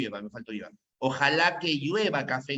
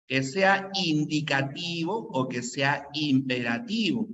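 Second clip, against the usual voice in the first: slow explaining; 3 dB louder, slower than usual. Shown as a demonstration. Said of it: "escúchame".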